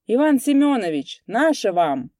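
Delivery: loud hail waving a hat; calling out. A narrator's reading. Sergeant greets passer-by loudly from the carriage. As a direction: call out across the road, loud. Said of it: "крича".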